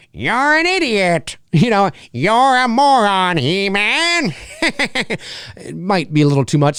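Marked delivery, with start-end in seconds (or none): 0.1-4.3 a hint of the cartoon villain sneering at He-Man; Skeletor. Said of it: "having Skeletor say".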